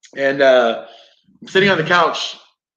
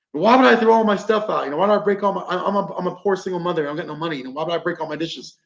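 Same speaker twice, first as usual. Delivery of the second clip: imitating a pleading mother, higher pitch; retold indignant protest; 4 semitones higher, faster than usual. Poor single mother defends herself to investigator, indignant protest.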